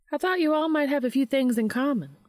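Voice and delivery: a hint of a welcoming older lady; warm older woman. A narrator's reading. Missouri voiced in story.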